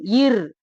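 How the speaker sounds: இர் said as a plain short syllable; just say இர் in your normal voice; said normally. Shown as a demonstration. Teacher showing students how to say இர் plainly. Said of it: "நார்மலா சொன்னா போதும்".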